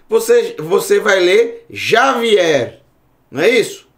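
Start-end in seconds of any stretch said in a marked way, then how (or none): 1.7-2.8 "Javier" slow, starting with zh; Portuguese reading. Shown as a demonstration. Teacher reading a Spanish name the Portuguese way, j as zh. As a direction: say "Javier" as "Zha-vi-ér". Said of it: "Se você for ler pelo português".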